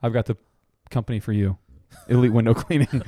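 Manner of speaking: steady sponsor-read delivery. Real, not acted. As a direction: pitch it like a podcast sponsor spot. Continues the sponsor spot.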